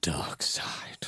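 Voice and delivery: unvoiced spooky whisper. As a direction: breathe it like a secret. Ominous joke about dark side.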